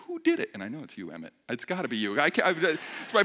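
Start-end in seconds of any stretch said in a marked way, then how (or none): 0.1-0.5 mock outrage. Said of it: "And I'm like".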